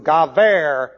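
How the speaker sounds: gaver said as GAH-ver, with a V where the B is written; Hebrew pronunciation. Shown as a demonstration. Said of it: "is pronounced like a V in Hebrew".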